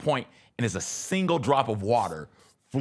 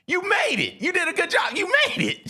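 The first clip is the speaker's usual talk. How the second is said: cheering crowd. Retold or imitated. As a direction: cheer her on as she leaves. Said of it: "They're like".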